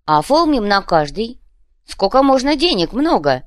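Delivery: loud pushy thug; gangster explaining. A narrator's reading. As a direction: push the deal like a pushy thug. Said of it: "объяснил Копыта".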